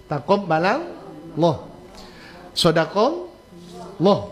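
Taqabbalallah and Sodaqallah drawn out with a heavy rounded "lo"; thick lam. Shown as a demonstration. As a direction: slowly say them with a full thick lam. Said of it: "Ya, begitu caranya". (lam tebal, pelan)

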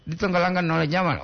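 "Ditenggelamkan oleh zaman" rattled off fast. Shown as a demonstration. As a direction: rush the phrase "Ditenggelamkan" through quickly. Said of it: "Ini juga kan tenggelam". (diulang dengan cepat)

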